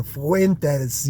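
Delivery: lightly imitated Spanish "Fuentes"; rolled R. Mimicking Phoenix speakers saying a Latin name, lightly Spanish-accented "Fuentes". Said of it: "they really roll that R".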